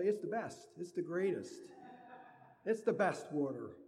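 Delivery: lightly mimicking a boastful politician; Donald Trump. Preacher imitating Trump bragging about water, mildly. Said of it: "Donald Trump would say".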